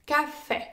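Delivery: "Café" with the final é stressed; stress on the last syllable. Shown as a demonstration. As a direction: lean on the last vowel of "Café". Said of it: "les mots accentués sur la dernière syllabe". (« Café » accentué sur la dernière syllabe)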